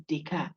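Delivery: "Descartes" soft day-car, no T at the end; French pronunciation. Shown as a demonstration. Lecturer correcting the class on the name, quiet day-car. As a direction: drop the T from "Descartes", French style. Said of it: "The last T there we added".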